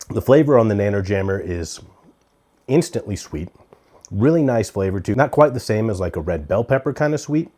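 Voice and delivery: talking with a mouth full; chewing while talking. Real, not acted. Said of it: "I'm gonna talk with my mouth full".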